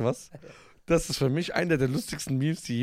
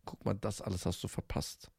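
cool farewell; 8 semitones lower, 9 dB quieter than usual. Pretend. Voicing friend's cool film line.

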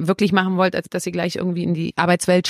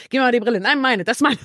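lightly voiced kids fighting over glasses, a bit higher; childish squabble; 4 semitones higher than usual. Wife retelling the fight with her husband over glasses, mild childish whine. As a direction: squabble like a child grabbing a toy, half in jest. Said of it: "da sind wir wie Kinder".

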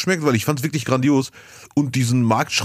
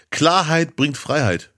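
slow quote; slower than usual. Retold or imitated. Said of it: "als er sagte".

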